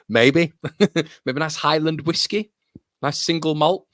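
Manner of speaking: high, lofty mock-toff voice with a laugh; mock posh snob. Streamer recommending single malt, mock snobby. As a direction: play the whiskey snob, tongue in cheek. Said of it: "is that snobby of me".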